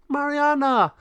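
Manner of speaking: high, loud call of a name; alarmed call. Acted. Penelo sees Mariana seized, loud alarmed call. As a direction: shout for your friend.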